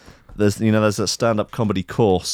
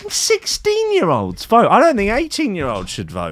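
put-on grumpy old man voice; 8 semitones higher than usual. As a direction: play a grumpy old codger. Mock old-timer ranting about voting.

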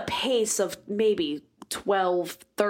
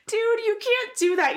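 mock scolding. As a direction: tell her off with a raised voice. Scolding drunk friend.

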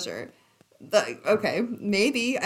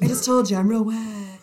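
mock deadpan lover; 2 semitones higher, 5 dB louder, faster than usual. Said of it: "She's like".

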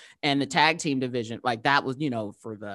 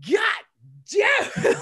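high, loud mock wail of frustration; retold upset; 5 dB louder than usual. Fan finds idol gone, comically upset outcry. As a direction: curse in exasperation, on the edge of laughing. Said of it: "I was so upset".

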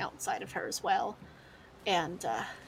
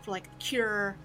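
nervous thug; 3 semitones higher, 4 dB louder than usual. Acted. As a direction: ramble your excuses, rattled. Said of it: "He said".

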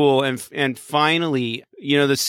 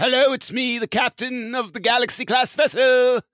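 Picard voice; 8 semitones higher than usual. Pretend. Voicing Picard on phone.

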